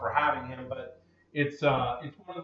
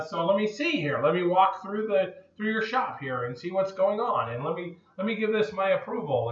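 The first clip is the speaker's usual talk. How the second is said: raised, self-important inspector; pompous inspector voice; 5 semitones higher than usual. Retold or imitated. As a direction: puff up like an inspector. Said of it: "so he's like".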